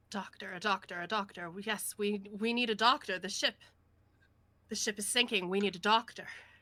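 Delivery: put-on old seafarer voice, salty and rough-edged. In a role-play scene, a character speaks as a salty old sea dog. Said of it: "he's like a salty old sea dog".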